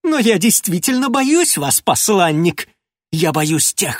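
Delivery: bursting from scorn into a yell; explosive rage. Acted. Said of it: "Голос его сорвался на крик". (срываясь на крик)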